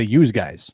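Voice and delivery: "yous guys" as said up North; "yous guys" with a Northeastern twang. Shown as a demonstration. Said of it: "No, no, we say".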